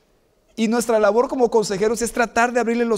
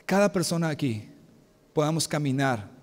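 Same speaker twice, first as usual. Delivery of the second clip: closing prayer; 2 semitones lower than usual. Acted. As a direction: pray to God for the congregation, slowing and fading. Closing prayer after "Vamos a orar. (oración pastoral sentida que se apaga al final)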